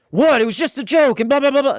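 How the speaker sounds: high, loud incredulous protest; mock defensive whine. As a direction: squeak out a defensive what. Husband's defensive reply, retold.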